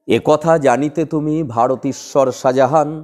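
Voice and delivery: slow, solemn Tagore recitation; slow motion recitation. Shown as a demonstration. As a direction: draw out every word of the poem. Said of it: "slow মোশনে বলি". (ধীর লয়ে আবৃত্তি)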